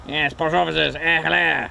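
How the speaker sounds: light posh "eh, hello"; a touch of the plummy officer; understated upper-class British accent; mildly posh greeting. Acted. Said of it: "impossible not to sound posh".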